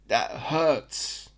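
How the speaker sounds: put-on British accent, dry and understated. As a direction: say it like a deadpan English bloke. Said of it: "if I do an okay British accent".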